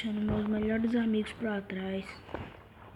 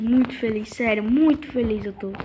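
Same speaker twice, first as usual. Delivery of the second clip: happy; 8 dB louder than usual. Real, not acted. Finds new island, overjoyed.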